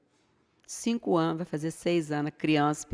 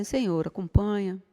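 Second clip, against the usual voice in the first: soft prayer; 5 dB quieter than usual. Shown as a demonstration. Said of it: "Fala assim".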